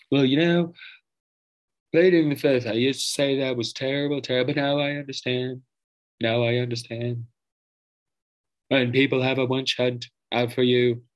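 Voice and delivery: a lightly put-on blustery politician voice, barely different; terrible Trump voice. Podcaster mocking Trump on pleading the fifth, lightly put-on voice. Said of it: "I'm just doing a voice".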